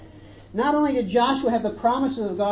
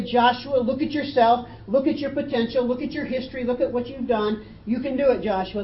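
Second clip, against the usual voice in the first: higher, driving pep talk; mock motivational coach; 4 semitones higher, 4 dB louder than usual. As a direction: pile up the urgings like a success guru. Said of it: "modern-day success-oriented courses emphasize us".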